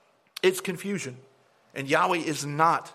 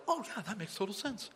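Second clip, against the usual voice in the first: mock agreement; 4 semitones higher, 10 dB quieter than usual. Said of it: "the other people that are on the podcast were like".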